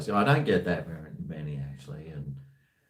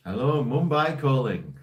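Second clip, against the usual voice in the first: put-on higher, louder Indian call-centre accent; 5 semitones higher, 5 dB louder than usual. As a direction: Indian phone greeting. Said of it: "Ten out of ten Indian accent".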